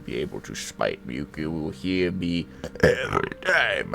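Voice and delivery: light imitation of a deep booming voice; a touch of the deepest man in the room; deep-voiced man. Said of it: "the deepest sounding man in the room".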